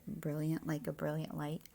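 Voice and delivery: usual speaking voice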